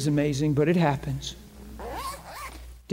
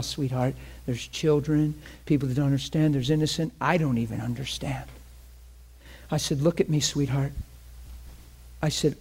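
gentle reassurance; 3 dB quieter than usual. Retold or imitated. Pastor gently reassuring the woman.

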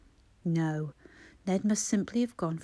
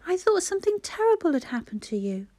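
anxious; 10 semitones higher than usual. A narrator's reading. Relieved worried mother to son.

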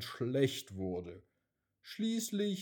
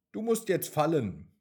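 louder, higher firm command; firm cloud; 5 semitones higher, 6 dB louder than usual. A narrator's reading. Cloud tells the raindrop to fall, firm. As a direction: tell it plainly it is time.

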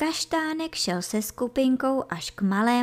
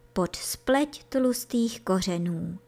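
plain reading voice

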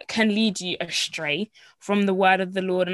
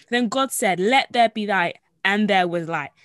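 scripture reading; 4 dB louder than usual. Acted. Reading verse three.

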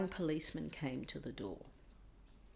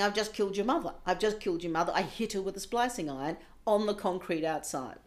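retold sobbing confession; 6 dB louder, faster than usual. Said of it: "to him sobbing".

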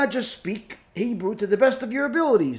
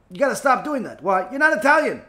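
raised-voice telling-off, pitched up; acted scolding; 6 semitones higher, 5 dB louder than usual. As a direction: tell him off emphatically. Acted listener scolding the rabbi.

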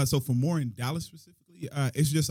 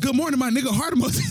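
hammed-up sweetness reading out a text to a friend; mock sweet greeting; 10 semitones higher than usual. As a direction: gush it like a lovey text.

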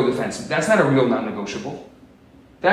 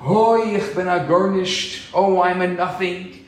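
drawn-out mock lament; mock wailing scream; 2 semitones higher than usual. First rabbinical student in the yeshiva, mock wailing. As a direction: wail it out like a student in the study hall. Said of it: "screaming on the top of their lungs".

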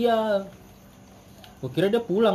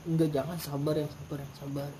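calming restraint; 4 semitones lower, 8 dB quieter than usual. Retold or imitated. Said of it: "Itu si cowok tuh gue itu".

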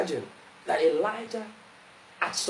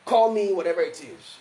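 mildly menacing ultimatum; threatening letter; 4 dB louder than usual. Acted. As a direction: deliver a measured threat. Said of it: "that was the tone of the, of the letter".

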